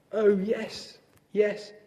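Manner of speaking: high, drawn-out dismissive Toad voice; slow, exaggerated high-pitched impatience; impatient. A narrator's reading. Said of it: "said Toad impatiently".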